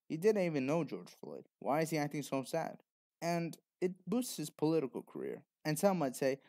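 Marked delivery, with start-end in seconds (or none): 0.1-2.8 doubtful, questioning tone; skeptical retort. Retold or imitated. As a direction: call out the fake grief. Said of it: "When they should be saying".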